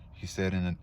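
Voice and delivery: plain reading voice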